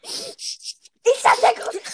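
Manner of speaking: high, slow goofy voice; silly put-on voice. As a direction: ham it up. Silly voice then laughs. (alberne Stimme)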